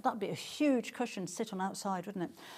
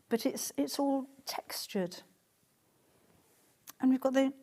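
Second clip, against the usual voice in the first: admiring whisper; 4 semitones higher than usual. Real, not acted. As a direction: whisper it like a secret treasure. Admiring fabric detail up close.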